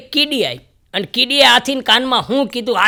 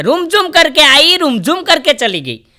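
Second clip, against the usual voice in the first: dramatic shayari recital; 4 dB louder than usual. Acted. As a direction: declaim it like a stage poet.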